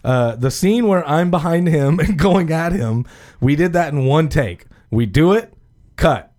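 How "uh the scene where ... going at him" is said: trying not to laugh; suppressed laughter. Real, not acted. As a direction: straight face cracking into a laugh. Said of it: "let me get a straight face here".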